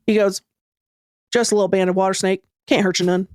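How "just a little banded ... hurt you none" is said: put-on low, drawling little swamp boy, lightly done; a kid playing it cool, badly imitated; poor imitation of boy. Swamp boy reassuring the narrator about the snake, poorly imitated. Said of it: "impression of this boy poorly".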